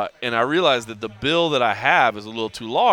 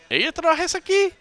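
high, broken Spanish question; pointing question; 3 dB louder than usual. Retold or imitated. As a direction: ask it pitched well up, pointing at her. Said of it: "and I'm like".

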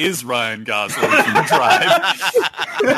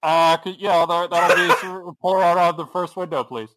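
drive thru speaker. Acted. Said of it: "drive-thru speaker crackles".

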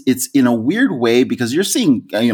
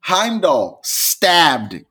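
laughing; 8 semitones higher, much slower than usual. Real, not acted. Laughing retelling of the deaths.

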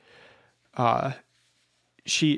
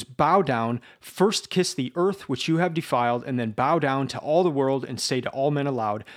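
raised, impassioned telling of the penance; ringing, pleading instructions; fervent plea; 2 semitones higher than usual. Acted. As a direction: urge every step of the penance with fire. Sonia pleads passionately for confession.

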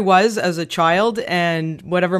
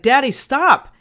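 mild yell, higher pitched; retold yell; 6 semitones higher, 4 dB louder than usual. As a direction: imitate a child calling out to dad. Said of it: "I yelled to my dad".

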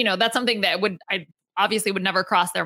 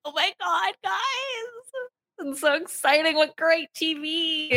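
much higher, gushing, then slowing; mock excitement; 8 semitones higher, 3 dB quieter than usual. Real, not acted. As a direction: overplay how thrilling it is. Gushing over the drama.

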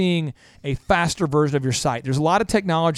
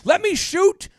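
much higher, strained, hammed-up order; mock captain's demand; 13 semitones higher than usual. Captain demanding to shoot the Klingons, hammed-up high voice. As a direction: squeal out the order to fire. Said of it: "And he's like".

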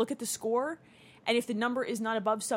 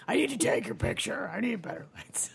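whisper. Real, not acted. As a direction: whisper it like a secret plan. Aside about basement lighting.

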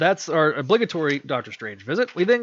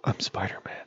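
soft, breathy whisper, lower; hushed reveal; 6 semitones lower, 7 dB quieter than usual. Acted. Peter revealing his identity to Carly in a hushed whisper. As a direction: confess it in a whisper. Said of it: "I just got the Tobey Maguire vibe".

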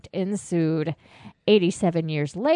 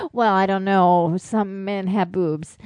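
being tickled; 4 dB louder than usual. Real, not acted. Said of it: "But stop tickling me".

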